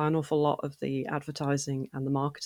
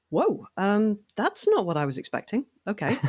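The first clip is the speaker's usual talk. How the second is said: mildly surprised, higher-pitched retold reaction; a light mock double take, pitched up; taken aback; 4 semitones higher than usual. Player retelling her first reaction to the theme music, taken aback.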